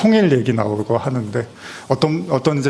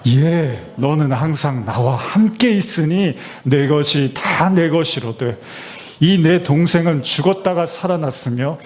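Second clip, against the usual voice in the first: slow, gently paternal reading; father's voice; slower than usual. Pretend. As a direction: read it as the father would say it. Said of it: "아버지 목소리로, 아버지의 톤으로".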